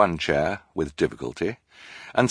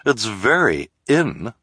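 snooty socialite; 4 semitones higher, slower than usual. Acted. Esme continues.

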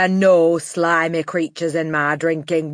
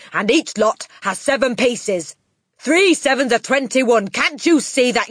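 loud, high-pitched angry tirade; Trunchbull; 8 semitones higher, 8 dB louder than usual. A narrator's reading. Headmistress berating a boy over multiplication, furious shouting. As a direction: hammer every word at full volume. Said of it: "shouted the Trunchbull".

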